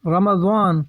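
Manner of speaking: رمضان in three syllables, "ra-ma-zaan"; رمضان carefully as "ramazaan"; short "a" on m. Shown as a demonstration. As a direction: say رمضان with an open "a" after the m. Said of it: "یعنی میم پر زبر ہے".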